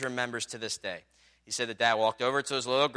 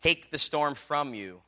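solemn quote; slower than usual. Retold or imitated. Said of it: "And he said".

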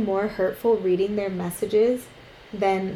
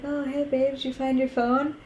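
higher, breezy, clueless greeting; clueless boyfriend; 5 semitones higher, 3 dB quieter than usual. Retold or imitated. Boyfriend waking on the bus, mock cheerful and clueless. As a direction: mimic the oblivious boyfriend, lightly. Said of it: "He's like".

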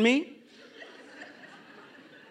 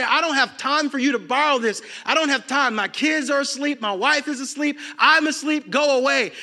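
high-pitched, mildly irritated brush-off; dismissive friend; 5 semitones higher than usual. Acted. Sleepy household's friend refusing a midnight favor, dismissive. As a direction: send away a late-night caller. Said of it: "your friend may even dismiss you".

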